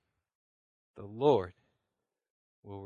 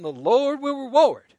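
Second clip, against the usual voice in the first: loud, high, slow revival shout; shouted refrain; 9 semitones higher, 10 dB louder, slower than usual. Retold or imitated. Pastor shows how Sunday crowds will shout, loud and slow. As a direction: cry it out like a Southern revival. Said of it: "people screaming and shouting".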